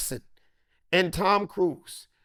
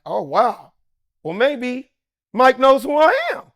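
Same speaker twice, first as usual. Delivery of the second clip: rising higher and louder with excitement; getting more hyped word by word; giddy hope; 6 semitones higher, 6 dB louder than usual. Retold or imitated. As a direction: talk yourself into hoping he knows you. Self quote, hoping to be known.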